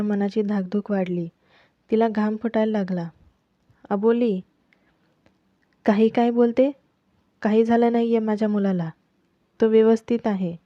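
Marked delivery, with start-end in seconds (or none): 3.9-10.5 a touch of a raised voice at her; mother-in-law snapping back, half-hearted; scolding with a slightly raised voice; mild shouting. Acted. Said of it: "Ranjana तिच्यावर ओरडल्या".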